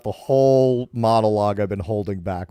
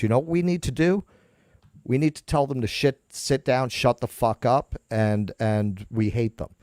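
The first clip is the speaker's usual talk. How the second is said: sarcastic mock voice. Mocking the studio's attitude to fans.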